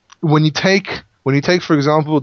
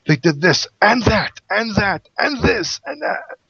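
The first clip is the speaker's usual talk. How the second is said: each and that climbing higher, trailing off; mock angry listing; 5 semitones higher, slower than usual. Shown as a demonstration. Teacher acting out an angry God's list. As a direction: pile on the charges like an angry man. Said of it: "when someone's very angry".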